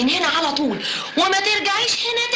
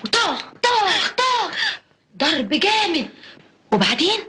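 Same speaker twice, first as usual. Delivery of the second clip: drawn-out smacking sounds; slow, dramatic beating sounds; slow mock menace; slower than usual. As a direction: spell out the blows slowly to scare her. Acting out the beating.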